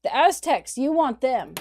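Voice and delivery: high, loud, eager "ooh, we can show you"; gleefully offering up the Aztecs; eager tattling. Retold or imitated. Tributary states eagerly pointing conquistadors to the Aztecs, excited. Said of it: "all the tributary states are like".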